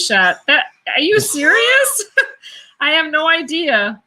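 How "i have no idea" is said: laughing. Real, not acted. Laughs at Scooby-Doo shot.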